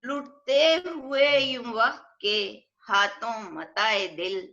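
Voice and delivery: measured, drawn-out verse delivery; poetry reading at a mushaira; ghazal recitation. Acted. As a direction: recite it as an Urdu couplet, lingering on the refrain.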